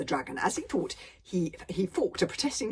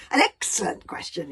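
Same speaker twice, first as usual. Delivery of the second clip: surprised dragon; 8 dB louder than usual. A narrator's reading. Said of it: "said the dragon in surprise".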